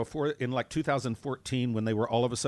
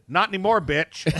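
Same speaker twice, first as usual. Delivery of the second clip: laughing retort; 6 semitones higher, 6 dB louder than usual. Retold or imitated. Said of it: "And I said".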